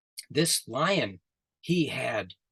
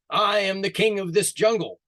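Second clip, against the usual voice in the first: echo's reply; 7 semitones higher, 5 dB louder than usual. Acted. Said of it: "the echo came back".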